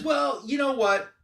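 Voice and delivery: smug villain voice. Retold or imitated. Lex voiced, condescending offer.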